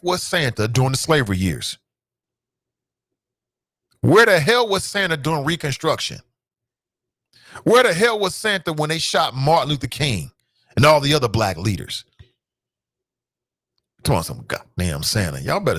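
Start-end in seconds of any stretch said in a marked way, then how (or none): 4.0-12.0 preaching outrage. Acted. Rising rhetorical outrage.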